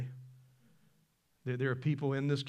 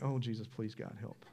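exasperated prayer; 2 semitones lower, 4 dB quieter than usual. Retold or imitated. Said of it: "it's like".

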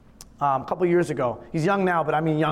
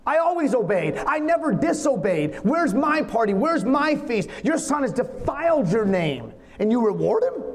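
angry rant; 2 semitones higher than usual. Acted. Older brother rants at his father: bitter, indignant. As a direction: let the grievance spill out, accusing. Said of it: "His rant is summarized in five angry words".

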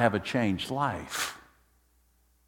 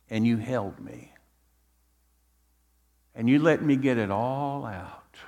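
hushed after the storm; tender gratitude; 3 semitones lower, 4 dB quieter than usual. Acted. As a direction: let it settle into soft, grateful testimony. Psalmist retells being held by God.

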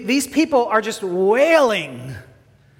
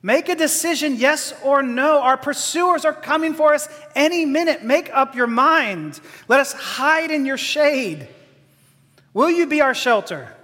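higher, pleading refugees begging to be let in; desperate plea; 4 semitones higher than usual. Acted. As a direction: beg them to decide before the pursuers come. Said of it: "you can hear them saying".

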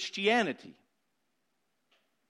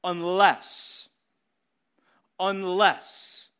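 "unless" said alone, louder, with a falling weight; stress on unless; 4 dB louder, much slower than usual. Shown as a demonstration. Preacher making the congregation hear "unless" louder. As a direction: land hard on "unless", then repeat it. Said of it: "Don't miss the word".

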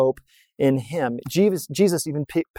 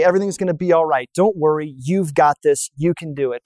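mock pep talk. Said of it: "expected God to say something like this".

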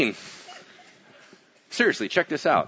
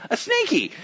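squeaky high cutesy "snaky"; playful; 14 semitones higher than usual. Acted. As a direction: say "snaky" like a cute little pet name. Playful word in story.

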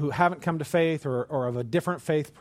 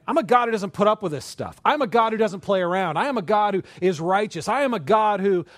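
louder, insistent divine declaration; forceful God voice; 4 semitones higher, 4 dB louder than usual. Acted. God declaring to Moses he doesn't play around, forceful. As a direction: proclaim it like an unbending God.

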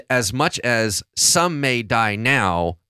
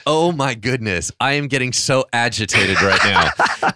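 mock agitation. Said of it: "I was like".

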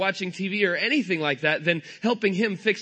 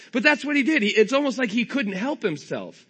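normal talking voice

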